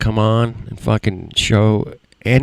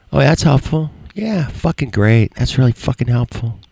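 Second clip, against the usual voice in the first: dry mock praise, a bit higher; sarcastic thanks to a useless troll; 4 semitones higher than usual. Real, not acted. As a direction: say it as if it helps, meaning it doesn't. Mocks rage-quitting viewers.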